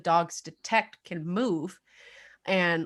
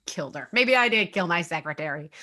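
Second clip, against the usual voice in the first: in disbelief. Shown as a demonstration. Host reading the killer's tapped words, disbelieving. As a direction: read it like he can't believe he did it. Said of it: "saying it in disbelief".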